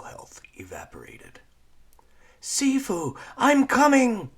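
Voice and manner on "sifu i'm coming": loud, high call into the night; crying out. Acted. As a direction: shout for your mentor into the dark. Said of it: "Lyra cried into the night".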